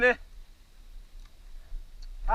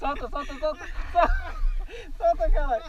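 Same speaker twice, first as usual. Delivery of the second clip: urgent shouting; 5 semitones higher than usual. Real, not acted. Urging the rider on the slope.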